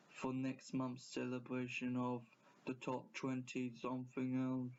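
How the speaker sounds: lightly mocked YouTuber intro voice; a hint of a droning video host; mild parody of a channel narrator; imitating Chills. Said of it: "With Chills, he talks like".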